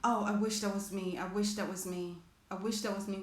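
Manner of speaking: a touch of sad longing, voicing the viewer; wistful longing. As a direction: let it sink with quiet envy. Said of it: "thinking about your own dreams and your own goals and wishing".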